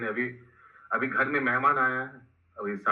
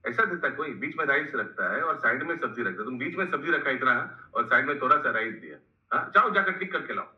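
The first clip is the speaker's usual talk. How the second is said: mock telling-off, pitch jumping up at the start; acted scolding. Mother-in-law scolds the maid to indirectly teach the daughter-in-law, acted scolding. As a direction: scold like an exasperated mistress, mildly acted. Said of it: "नौकरानी को डांटता है".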